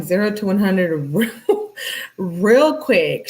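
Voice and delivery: laughing through the words; amused disbelief, laughing as she says it; real laugh breaking into the line. Real, not acted. Laughing at the escalation.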